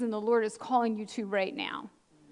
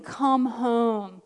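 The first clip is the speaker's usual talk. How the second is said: drawn-out call in her usual pitch; retold calling. Retelling Jesus at the gate, drawn-out call. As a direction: call them home, holding each word. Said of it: "Jesus standing at the gate saying".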